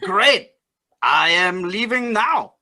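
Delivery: put-on loud, slow Cajun accent. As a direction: play Cajun, drawing it out loudly. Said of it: "you still have to use your Cajun accent".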